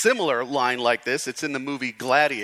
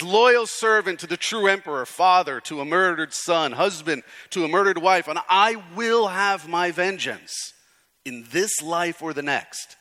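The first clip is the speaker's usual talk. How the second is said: declaimed movie-hero vow, raised then easing; Russell Crowe; 3 semitones higher, 3 dB louder than usual. Retold or imitated. Pastor quoting the gladiator's vengeance speech, imitated heroic declamation. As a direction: proclaim it like a wronged gladiator. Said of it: "And he says".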